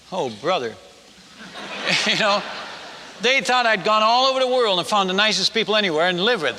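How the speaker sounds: chuckling through the words; laughing. Real, not acted. Preacher telling the congregation, laughing at the irony. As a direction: let a real laugh spill into the line.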